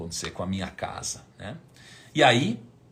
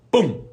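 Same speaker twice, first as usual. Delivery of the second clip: mock alert pop; 7 semitones higher, 9 dB louder than usual. Imitated sale alert.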